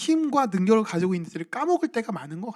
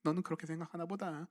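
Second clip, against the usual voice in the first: calmly brushing it off; 7 dB quieter than usual. Retold or imitated. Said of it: "이러면서 그냥 넘기는데".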